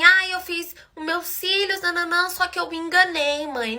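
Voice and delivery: drawn-out whiny mock plea; imitated crying. Girl confessing to her mother on the phone, mock crying. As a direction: mimic a tearful call to mom. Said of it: "ela ligou chorando pra mãe dela".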